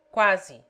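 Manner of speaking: "Quase" with the final e said as a short i. Shown as a demonstration. Tutor demonstrates the short i. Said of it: "E in it".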